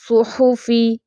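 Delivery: "صحفی" as su-hu-fee with u vowels; correct rounded pesh. Shown as a demonstration. Teacher modelling for practice, rounded u. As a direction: keep "صحفی" rounded, never o. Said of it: "ہم نے اس کا صحیح تلفظ پڑھا".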